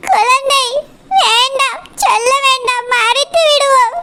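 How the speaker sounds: understated weepy plea; tearful pleading. Acted. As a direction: plead haltingly to keep a secret, on the edge of tears. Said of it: "பச்சைக்கிளி எதுக்கு அழுவுறா?".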